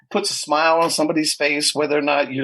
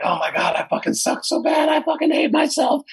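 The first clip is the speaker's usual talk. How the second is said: higher-pitched, exasperated self-beratement; mock self-loathing; 10 semitones higher than usual. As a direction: beat yourself up in a raised, whiny pitch. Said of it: "And you're like".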